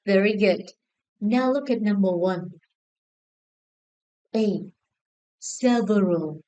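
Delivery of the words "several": "Several" with the first syllable stressed; slow "Several", weight on the opening syllable. Shown as a demonstration. Teacher showing class where stress falls in "Several", first-syllable stress. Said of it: "the stress is on the first syllable".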